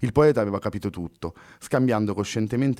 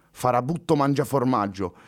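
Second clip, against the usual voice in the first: joking; 7 semitones higher, 3 dB louder than usual. Acted. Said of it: "scherzò puntandogli un dito".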